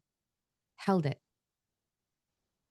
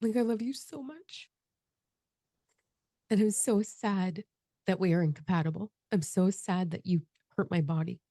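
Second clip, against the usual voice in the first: tender farewell; 4 semitones higher than usual. Retold or imitated. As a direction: murmur it fondly to a lost love. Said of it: "I was like".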